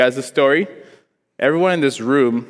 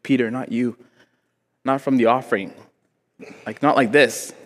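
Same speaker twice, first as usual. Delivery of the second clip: heartbroken mom; 3 dB quieter than usual. Retold or imitated. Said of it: "my mom was just so heartbroken".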